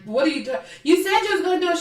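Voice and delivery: high mock childish accusation; na-na taunting voice. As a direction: mimic her bratty badgering. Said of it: "talks like she's a na, na".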